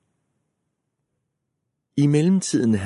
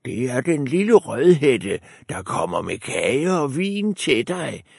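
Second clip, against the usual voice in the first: wolf in a higher put-on girl voice; wolf faking a girl; 5 semitones higher than usual. A narrator's reading. Wolf pretends to be Red Riding Hood at the door, higher voice. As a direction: fake the little girl's voice. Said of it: "svarede ulven".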